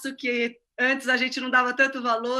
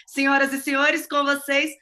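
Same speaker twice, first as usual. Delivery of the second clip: grand entrance announcement. Acted. Host introduces guest on radio.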